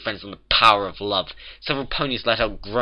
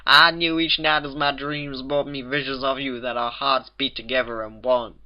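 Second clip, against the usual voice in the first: higher, overwrought lovesick declaration; melodramatic exclamation; 5 semitones higher, 5 dB louder than usual. A narrator's reading. Applejack reunited with Rarity, melodramatic declaration. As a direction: pour out your longing like a stage lover. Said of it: "Applejack exclaimed, nearly collapsing".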